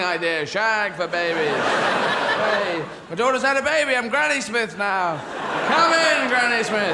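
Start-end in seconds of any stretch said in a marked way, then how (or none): 1.6-7.0 high, loud, laughing welcome; cheery hammed-up hello; excited welcome. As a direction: greet her like a returning star. Welcomed back with baby.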